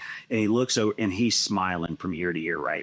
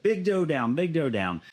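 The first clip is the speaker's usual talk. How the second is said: excited report; 8 semitones higher than usual. Retold or imitated. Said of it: "It was like".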